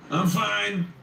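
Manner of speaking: high, loud shout. A narrator's reading. Narrator shouting back at the doctor, loud and shaky. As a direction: shout it out, voice strained with fear. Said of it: "I shout, my hands shaking".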